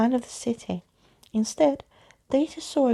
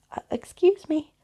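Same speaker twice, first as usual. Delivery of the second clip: interrupting; 7 semitones higher, 4 dB louder than usual. Acted. Caspar interrupting.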